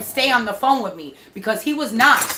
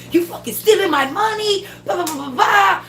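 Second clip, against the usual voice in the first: imitating son flipping out; 9 semitones higher than usual. Son ranting at landlady over money, mock furious. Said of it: "Now my son is flipping".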